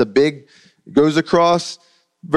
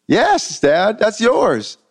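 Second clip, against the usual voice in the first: raised, slow insistence; son insisting; 9 semitones higher, much slower than usual. Retold or imitated. Son insisting to his father that the truck is his, slow and raised. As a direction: lean on it slowly, gently insisting.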